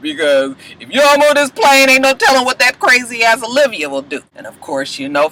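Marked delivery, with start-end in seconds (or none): 0.0-4.2 laughing plea. Retold or imitated. Melly pleads, retold with laughter.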